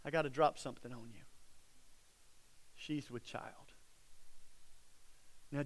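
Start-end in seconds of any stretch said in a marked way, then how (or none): 0.0-3.7 dropped much softer, like breaking secret news; hushed confiding. Acted. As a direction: lean in and hush it. Friend breaks the news to Joseph.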